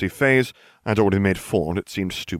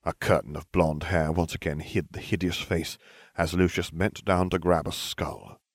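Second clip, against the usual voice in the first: usual speaking voice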